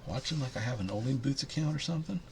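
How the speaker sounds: high put-on cat voice, complaining she has worked hard; cat's voice.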